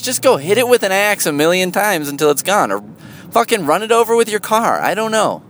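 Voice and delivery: ordinary talk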